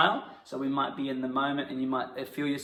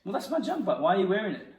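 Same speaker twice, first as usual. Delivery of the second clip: indignant; 6 semitones higher, much faster than usual. Pretend. Improvised quarrel.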